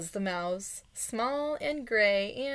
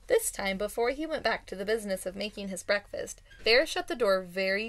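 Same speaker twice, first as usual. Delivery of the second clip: expressive storybook narration; story read-aloud. A narrator's reading. Reader tells how Bear shut the door, expressive storytelling. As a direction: read it out like a picture book.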